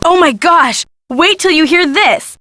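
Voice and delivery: high, breaking-news excitement; excited gossip. Acted. Guest rushes to tell detective the latest gossip, excited. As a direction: burst in with juicy news, pitch up.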